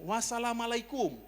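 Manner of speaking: put-on high-pitched salutation; landlord's greeting. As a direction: imitate a stranger's sing-out greeting, stretched and high. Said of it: "dia ngomong begini".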